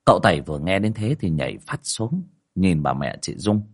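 measured storytelling voice over music; story narration. A narrator's reading. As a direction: tell the ghost tale steadily. Narration between quotes.

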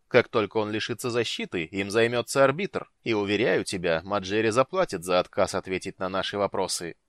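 cold, commanding dark lord voice; menacing lord. Acted. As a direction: speak as a ruthless ruler. Night lord character voice.

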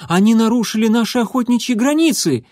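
high, hurried report of enemy tracks; young warrior's mew. Acted. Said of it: "мяукнул он".

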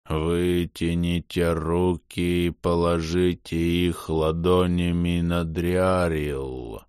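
very slow, eerie distorted voice. Acted. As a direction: eldritch horror, drawn out slowly. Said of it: "жутко искажённый голос".

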